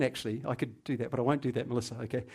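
ordinary talk

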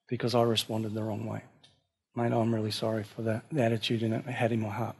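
the right way to approach a brother, soft and humble; gentle apology. Shown as a demonstration. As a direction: come to him quietly with grace. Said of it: "You've gotta go".

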